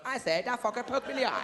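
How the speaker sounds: a hint of a posh monocled shark; lightly voiced snooty shark complaining. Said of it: "wearing a monocle going".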